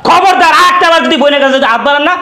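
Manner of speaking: heated threat; angry yelling. Acted. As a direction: threaten them, hard and insistent. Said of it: "তুমি আর চিল্লাচিল্লি করো না".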